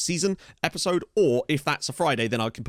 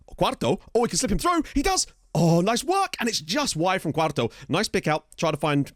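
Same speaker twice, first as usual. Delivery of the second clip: higher, excited football commentary; live play-by-play; 6 semitones higher than usual. Real, not acted. Gamer calls a near miss by Quarto, excited commentary. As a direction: follow the attack as it happens.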